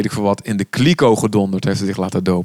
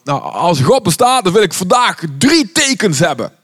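high, half-sung quote of the singer; folk singer asking God; 7 semitones higher than usual. Retold or imitated. Preacher quoting a folk singer's prayer, half-sung and high. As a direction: lightly croon it like a carnival singer.

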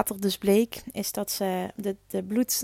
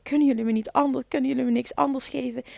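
pleading; 3 semitones higher, faster than usual. Retold or imitated. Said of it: "aan het smeken om hulp".

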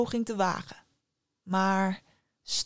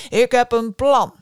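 king calling out loudly, higher; excited cry; 3 semitones higher, 11 dB louder than usual. A narrator's reading. King announces his plan to his feasting people, loud exclamation. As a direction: announce it to the whole hall at a shout. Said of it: "koning Ayul uitriep".

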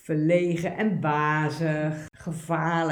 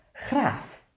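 called command; 9 semitones higher than usual. Acted. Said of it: "Het baasje roept".

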